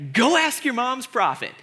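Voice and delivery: lightly sarcastic retort; a touch of mockery; Elisha, sarcastic. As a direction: toss it back as a taunt. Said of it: "both incredibly sarcastic".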